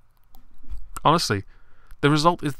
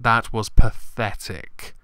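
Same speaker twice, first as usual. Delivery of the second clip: put-on slow, loud stab at a Scottish accent; attempted Scottish accent; 5 dB louder, much slower than usual. Commentator mimicking a politician standing up, attempted Scottish accent. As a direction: badly imitate a Scottish politician, drawn out and louder. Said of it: "that in a Scottish accent".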